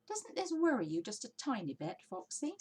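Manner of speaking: Badger, a touch anxious, rising; worried Badger. Badger asking Fox about the stealing, lightly worried. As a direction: gently voice a worry.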